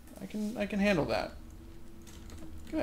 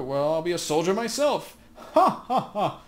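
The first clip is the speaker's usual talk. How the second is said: put-on cackling old woman; 2 semitones higher, 6 dB louder than usual. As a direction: laugh loud at your own joke. Katrin laughs at her own idea.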